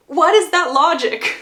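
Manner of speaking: loud, high disbelief; can't believe what she just heard; outraged what-is-that; incredulous. Real, not acted. Baffled by a character's reasoning.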